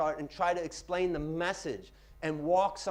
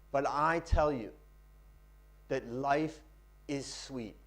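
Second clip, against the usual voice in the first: poetry reading; 2 semitones lower, slower than usual. Shown as a demonstration. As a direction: let the phrases settle gently between pauses. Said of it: "Practice reading poetry".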